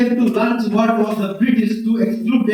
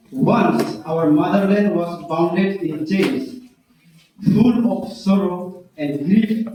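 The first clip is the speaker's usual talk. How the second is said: slow, measured recital with pauses; poem recitation; slower than usual. Acted. Student reciting own poem to judges, measured recitation. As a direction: recite line by line, deliberately.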